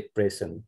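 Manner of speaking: "present" as PREH-sen; noun pronunciation. Shown as a demonstration. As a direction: say "present" with an open e first. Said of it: "present refers to noun or adjective".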